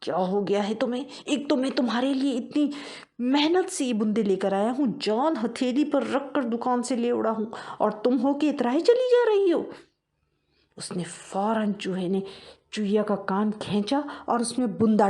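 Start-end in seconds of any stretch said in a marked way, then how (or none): 0.0-9.7 mild angry shout. Acted. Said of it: "वो चीखा".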